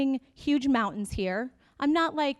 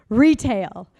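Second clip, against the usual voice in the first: loud; 11 dB louder than usual. Shown as a demonstration.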